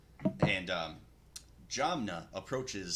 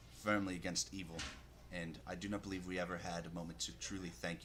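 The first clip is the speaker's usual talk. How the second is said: sincere; 5 dB quieter than usual. Acted. GM voices Velathar thanking Grosho.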